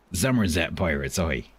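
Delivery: put-on light West Country pirate accent; Somerset pirate. Streamer naming the right sort of pirates, Somerset accent. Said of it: "of pirate talking".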